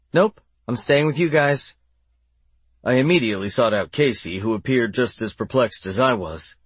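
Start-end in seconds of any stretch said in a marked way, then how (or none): 0.1-1.8 put-on stubborn young girl voice; defiant little girl. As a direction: dig in your heels like a kid. Child Sydney refuses.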